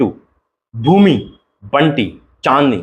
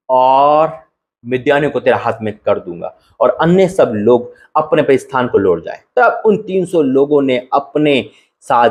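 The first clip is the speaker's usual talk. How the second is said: a measured Bible reading, slightly raised; scripture reading. Acted. Pastor reads Gideon's story to viewers, measured reading voice. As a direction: read the verses to the congregation with gravity.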